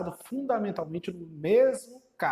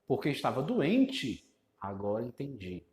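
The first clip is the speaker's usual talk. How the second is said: 1 mock retort; 5 semitones lower than usual. Shown as a demonstration. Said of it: "E eu indago".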